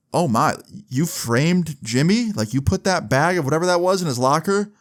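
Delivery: imitating disbelief, pitched high; shocked teacher. Teacher reads the confession, shocked.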